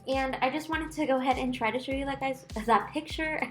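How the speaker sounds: lisping through new teeth; slushy s, mouth still adjusting. Real, not acted. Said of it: "I can't talk today".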